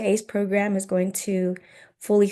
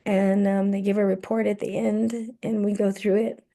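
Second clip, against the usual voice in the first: losing voice. Real, not acted. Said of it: "I'm about to lose my voice".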